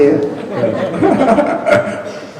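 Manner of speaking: short laugh, falling away. Real, not acted. Author laughs at his own joke about money. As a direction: let a laugh trail off.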